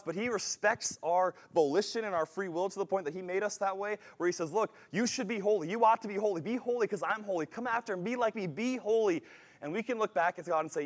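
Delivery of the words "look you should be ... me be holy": insistent urging, pitched up; forceful invitation. Acted. God urging his people to be holy, forceful invitation. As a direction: press each command home, higher and firm. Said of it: "it's a forceful invitation to".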